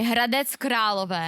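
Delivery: "Hradec Králové" with fluent Czech sounds; native Czech pronunciation. Shown as a demonstration. Czech host shows co-host how, "Hradec Králové" rolled off natively. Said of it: "roll that off the tongue like you just did".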